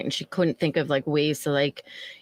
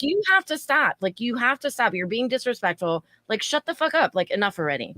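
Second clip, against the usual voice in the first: mild retold yelling; 4 semitones higher than usual. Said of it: "I'm, like, yelling".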